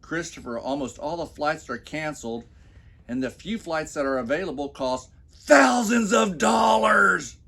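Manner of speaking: mocking wife, high and shrill-loud panic; mock-worried wife shouting about flight prices. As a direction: play the fretting wife, voice shooting up into a shout. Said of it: "She says in a worried voice".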